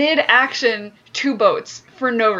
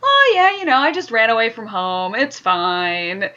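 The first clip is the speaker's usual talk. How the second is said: blasé. Acted. Mocking Aang explaining his running away, blasé. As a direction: toss it off as no big deal. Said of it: "blasé voice possible".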